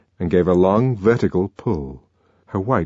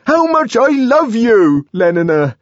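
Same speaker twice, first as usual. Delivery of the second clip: desperate confession; 14 semitones higher, 6 dB louder than usual. A narrator's reading. John confessing love to Lenina, desperate. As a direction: force the words out. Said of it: "he brought out almost desperately".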